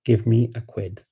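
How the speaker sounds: "give me a quid" with give and me kept separate; standard English. Shown as a demonstration. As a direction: give me a quid, each word intact. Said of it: "that would be standard English".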